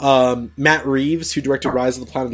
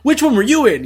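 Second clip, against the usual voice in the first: impressed fan gush; 6 semitones higher than usual. Retold or imitated. Retelling a fan's gushing to the star, in an excited voice. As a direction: play the starstruck fan, lightly.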